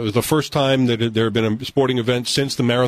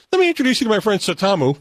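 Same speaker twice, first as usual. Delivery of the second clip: flirty teasing dating host; 9 semitones higher, faster than usual. Retold or imitated. Bar guy showing off friend.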